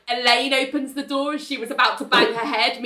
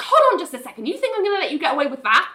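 raised, quick mock indignation; mildly mad retort; 5 semitones higher, faster than usual. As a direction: pull him up sharply, acting cross. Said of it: "Ali's mad at him now".

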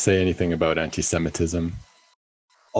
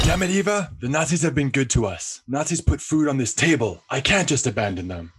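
higher, pleading exasperation; exasperated; 5 semitones higher than usual. Acted. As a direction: argue with your wife. Husband argues with wife.

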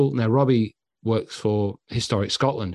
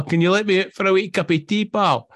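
imitated plea; 10 semitones higher, 4 dB louder than usual. Retold plea to be let out.

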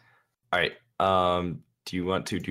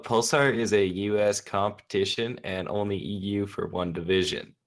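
reading a message in a hammed-up Southern American accent. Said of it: "ridiculous Southern American accent that you did".

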